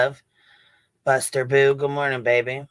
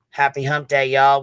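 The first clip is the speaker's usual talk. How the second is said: loud greeting; 6 dB louder than usual. Real, not acted. Greeting the live chat on Wednesday, a loud call-out. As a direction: call it out louder to the whole room.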